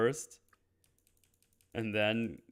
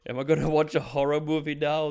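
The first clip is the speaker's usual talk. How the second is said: higher, louder mock panic; 4 semitones higher, 5 dB louder, faster than usual. Geppetto seeing a faceless puppet, mock panic. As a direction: rush it out like an alarmed old man.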